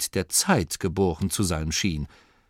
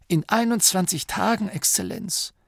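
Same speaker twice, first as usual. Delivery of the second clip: Dorcas voice; 11 semitones higher than usual. Acted. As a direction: answer respectfully in a raised voice. Dorcas replies.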